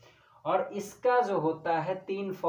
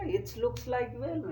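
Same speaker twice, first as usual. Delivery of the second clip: higher, slow, disbelieving echo of "It's looks like well?"; incredulous repeat; 7 semitones higher, much slower than usual. Retold or imitated. Teacher echoing student's mistake in disbelief, higher and slow. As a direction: repeat it back as if you can't believe it. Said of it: "यार, इसमें it's लगा दिए हो, कैसे".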